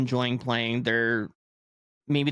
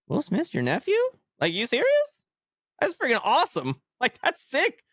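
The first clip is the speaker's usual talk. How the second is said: much higher, excited, with laughs breaking in; thrilled disbelief; 13 semitones higher than usual. Retold or imitated. Vlogger retelling meeting Will Smith's aunt, excited and laughing. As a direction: gush like a starstruck fan.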